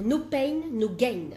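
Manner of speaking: English phrase with a French accent. Real, not acted. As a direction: speak English as a self-conscious French speaker. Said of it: "mon accent tout pourri".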